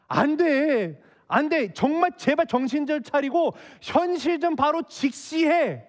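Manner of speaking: acted mother-in-law at the end of her patience; exasperated urging. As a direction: urge her firmly to come to her senses. Mother-in-law urging Ruth to be realistic.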